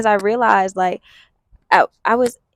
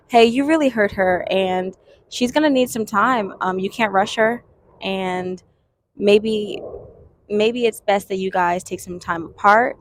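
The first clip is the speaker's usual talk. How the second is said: protective parent voice. Shown as a demonstration. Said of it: "this is how I would say it if it was for my daughter".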